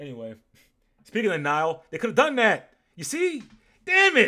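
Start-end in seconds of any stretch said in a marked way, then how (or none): 1.1-4.3 very high, very loud, shrill, swooping, worked-up outburst. Making river puns for the nerds out there, getting upset. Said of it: "Sorry, I'm getting upset now".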